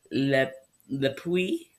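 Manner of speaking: slow, halting stab at French pronunciation; attempted French accent. Shown as a demonstration. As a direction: try it in French, unsure and slow. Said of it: "pronounce stuff in a French accent".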